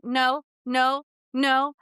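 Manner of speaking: put-on insistent kid. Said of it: "he interrupts me and goes".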